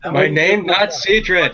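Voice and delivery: slow, emphatic Goliath. Acted. Goliath corrects the party about his name, slow and emphatic. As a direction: correct them slowly and firmly, as Hedrock. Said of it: "a much deeper voice than the Sirdred".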